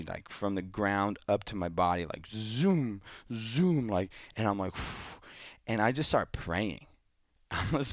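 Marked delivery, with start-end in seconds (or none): 2.3-3.9 mock energy rush. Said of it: "feeling this energy".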